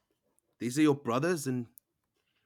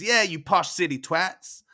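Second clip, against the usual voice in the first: higher, louder jeer, lightly voiced; jeering twin; 5 semitones higher, 5 dB louder than usual. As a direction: back up the sibling's insult. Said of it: "Bunda says".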